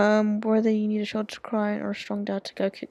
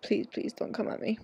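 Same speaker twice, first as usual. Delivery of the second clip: whispering; 6 dB quieter than usual. Real, not acted. Pleading whisper to the game.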